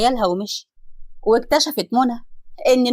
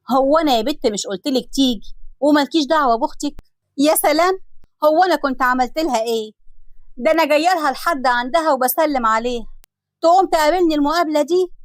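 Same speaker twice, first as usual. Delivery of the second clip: higher, rising outrage at her sister's snub; indignant complaint; 4 semitones higher than usual. Acted. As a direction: play the wronged one, protesting to mom. Nosha complains to her mother.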